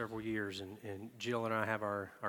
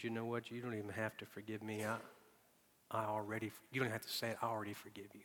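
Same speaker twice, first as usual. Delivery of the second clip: softer, almost whispered forgiveness; soft release; 6 dB quieter, faster than usual. Pretend. Preacher voicing someone releasing an offender, hushed and gentle. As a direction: quietly let them off the hook.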